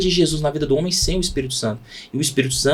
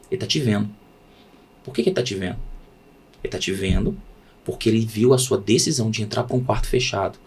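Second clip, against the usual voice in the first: low, soft, reassuring answer; hushed, earnest pastoral assurance; gentle reassurance; 4 semitones lower, 4 dB quieter than usual. Acted. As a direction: drop down low and quiet to comfort.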